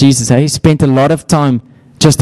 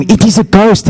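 hammed-up ghost alarm; mock scream; 8 semitones higher than usual. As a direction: cry it out like a terrified sailor. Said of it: "They scream".

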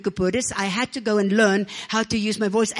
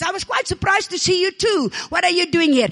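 mock surprised Pharisee; 5 semitones higher than usual. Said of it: "Moses looked at Abram over there and says".

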